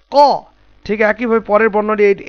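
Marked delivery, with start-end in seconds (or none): 0.1-0.2 ক as a full, rounded "qaw"; heavy sound. Shown as a demonstration. Teacher drilling Qaf with students, heavy ক. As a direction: pronounce ক heavy, from deep in the throat. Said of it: "কি উচ্চারণ হবে?".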